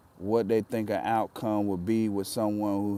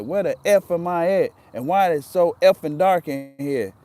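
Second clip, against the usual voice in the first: retold angry cursing; 5 semitones higher, 4 dB louder than usual. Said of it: "I used profanity".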